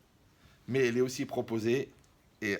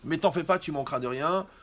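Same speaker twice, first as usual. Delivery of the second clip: louder, higher mock promise of a carefree boyfriend; hammed-up boast of a lazy charmer; teasing impression of a smooth talker; mock reassuring suitor; 4 semitones higher, 5 dB louder than usual.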